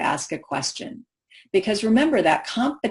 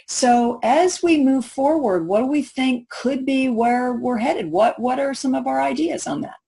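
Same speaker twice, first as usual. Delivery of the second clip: open, inviting questioning; approachable, tentative; 5 semitones higher than usual. Shown as a demonstration. Presenter modelling an approachable question, inviting and tentative. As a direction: invite ideas gently and tentatively. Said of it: "plural forms and tentative language offers an out".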